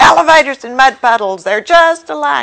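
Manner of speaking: high, shrill shrieking tantrum at full volume. Retelling someone's outburst in an elevator: imitating someone screaming. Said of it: "started screaming".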